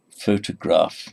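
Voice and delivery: photograph stressed on PHO, the first syllable; PHO-tograph, first syllable strong. Shown as a demonstration. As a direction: hit PHO in photograph, let the rest fall. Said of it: "I'll just give you an example".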